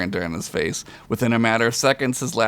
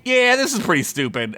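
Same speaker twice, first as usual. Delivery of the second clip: character voice; 10 semitones higher than usual. Acted. Ax's voice, dry remark.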